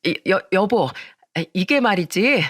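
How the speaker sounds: flustered, stumbling start on 여보; panicked stammer, tripping over the first word; stammering fear. Acted. Flustered wife stammers at husband. (남편에게 겁먹어 더듬는 말투)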